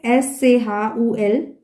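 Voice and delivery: S C H U L letter by letter; spelled out. Shown as a demonstration. Teacher breaking a word down for learners, "S C H U L" spelled out. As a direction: spell "S C H U L" one letter at a time.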